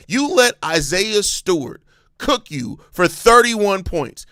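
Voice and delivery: slow and heated, stressing let; exasperated rant. Real, not acted. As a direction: hammer it home in disbelief. Venting about lopsided loss.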